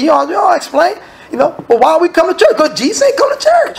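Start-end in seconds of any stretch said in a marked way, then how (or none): 1.7-3.8 high, squeaky mocking voice of a clueless member. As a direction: ham up a silly churchgoer, pitched way up.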